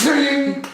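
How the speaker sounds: high, ringing "zing"; imitated tool sound. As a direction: make the sound of tools springing out. Imitates tools springing open.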